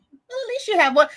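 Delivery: sassy. Retold or imitated. Reading a viewer's comment with sass. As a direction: read it with sass. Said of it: "was it sassy or was it like".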